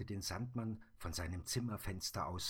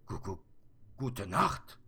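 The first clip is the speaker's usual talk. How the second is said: stammering Sandman; 6 dB louder than usual. Acted. Sandman stammering goodnight back to the girl, stuttering. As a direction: stutter gu-, gu- before gute Nacht. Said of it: "stammelte der Sandmann".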